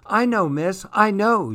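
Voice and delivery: high, eager calling out; happy shout. Acted. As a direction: call out keen to answer. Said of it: "she shouted happily".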